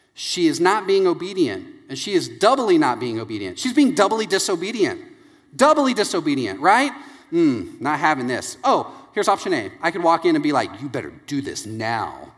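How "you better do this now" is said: low, quiet, commanding trailer-narrator voice. Speaker demonstrates demanding that she do her work, low voice. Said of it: "use the low voice".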